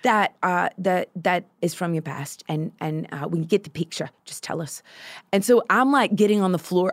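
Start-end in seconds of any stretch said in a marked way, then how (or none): 0.0-4.8 Mia. Retold or imitated. Prayer leader asks for a picture of a wound, lightly imitated. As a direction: mildly mimic a leader's patient instructions. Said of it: "You do Mia very well".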